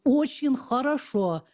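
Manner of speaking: Очень хорошо said slowly with throaty Russian sounds; guttural Russian. Shown as a demonstration. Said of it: "sort of guttural sound".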